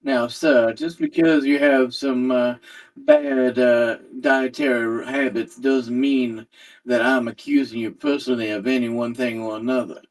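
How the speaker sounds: lightly voiced investigator, measured and courteous; understated, polite in-character voice; polite investigator Silas. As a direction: introduce yourself with discreet professional calm. Plays Silas placating the chef.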